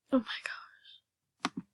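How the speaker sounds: slow, hushed, breathy disbelief; awed whisper. Real, not acted. Gamer whispering in awe over the rare pet. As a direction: let the awe slip out quietly.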